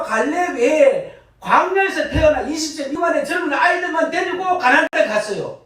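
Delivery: building pulpit fervour; fervent preaching. Acted. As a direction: preach it out to the whole congregation. Preaching at full force.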